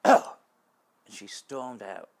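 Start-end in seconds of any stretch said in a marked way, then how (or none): 0.1-0.4 loud startled "Oh!"; shocked gasp. Retold or imitated. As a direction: blurt it out in shock. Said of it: "she went".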